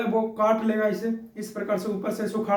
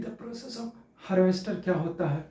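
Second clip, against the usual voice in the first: softly, slowly recite the definition; slow recitation demo; 5 dB quieter, slower than usual. Shown as a demonstration. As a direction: show a student how to say it slowly. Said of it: "इतना धीरे धीरे तो बोलना है आपको". (धीरे-धीरे, धीमी आवाज़ में बोलकर दिखाना)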